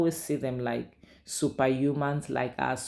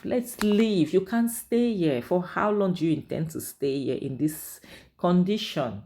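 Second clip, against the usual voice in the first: higher, urgent pleading friend; 5 semitones higher than usual. Retold or imitated. Friend begging Angel to leave the house, pleading. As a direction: beg her to leave, pitched up.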